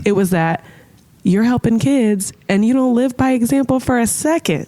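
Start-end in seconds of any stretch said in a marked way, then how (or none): 1.2-4.7 self-scolding. Retold or imitated. Scolding his younger self, rising pitch.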